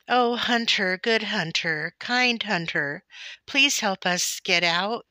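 high, loud begging call; pleading cry. A narrator's reading. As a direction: beg the hunter desperately for rescue. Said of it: "cried the animals".

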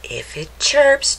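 put-on lively storybook read-aloud for kids; picture-book narration voice; reading to children. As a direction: read it like story time for little ones.

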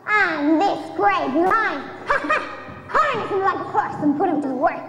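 lightly voiced gloating witch; wicked witch. The witch gloating over Dorothy, mildly sneering witch voice.

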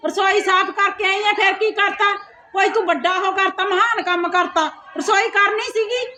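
scornful nagging; sarcastic scolding. Acted. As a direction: belittle her effort with mock admiration. Sarcastically echoes her chore excuse.

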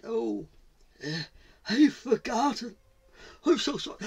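high, hesitant apology; high-pitched, halting admission; sheepish leopard. Acted. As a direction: squeak out an embarrassed confession. Leopard admits forgetting.

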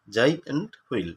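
"জায়েন্ট হুইল" in separate parts, জায়, এন্ট, হুইল; teacher sounding out "জায়েন্ট হুইল" with small gaps; broken into syllables. Shown as a demonstration. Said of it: "ভাঙলে কি হবে?".

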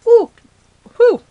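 sharp exhale through a sour pucker; sour face. Real, not acted. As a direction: wince at the sour candy, then breathe out. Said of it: "I'm eating a lemon head".

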